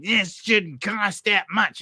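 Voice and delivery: high, slow, put-on villain voice; King Cobra voice. Griping about house prices, slow and high in a put-on villain voice. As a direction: drag it out like a cartoon snake king. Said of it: "I start talking like King Cobra".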